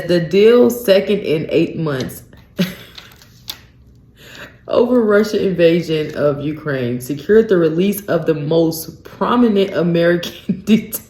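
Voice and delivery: reading aloud, breaking off in laughs; incredulous laughter interrupting the reading; can't read for laughing. Real, not acted. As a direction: try to read it out and crack up. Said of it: "I can't even read this".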